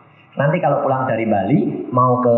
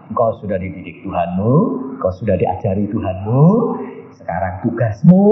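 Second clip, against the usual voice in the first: gentle false Jesus; 3 semitones lower than usual. Retold or imitated. Devil posing as Jesus questions the preacher, gentle. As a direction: lower imitated voice, phrases rising. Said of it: "dia ngomongnya halus, lembut".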